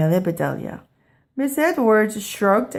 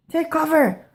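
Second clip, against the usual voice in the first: yelled; 10 semitones higher than usual. A narrator's reading. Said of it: "yelled Amelia Bedelia".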